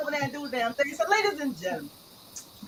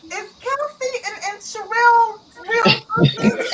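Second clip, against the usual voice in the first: a lightly voiced curious question; host imitating a guest asking whether they are sisters; mock question; 7 semitones higher, 4 dB louder than usual. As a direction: voice soaring up on sisters. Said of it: "Iris asked".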